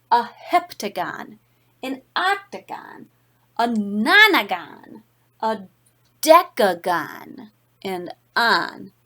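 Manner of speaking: put-on lively read-aloud voice for children; story narration. A narrator's reading. Reads picture book to class.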